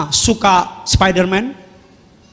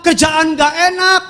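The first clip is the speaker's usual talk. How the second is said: mock complaining shout; 7 semitones higher than usual. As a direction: belt out a tired worker's grumble, half in jest. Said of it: "Saudara kalau ngeluh".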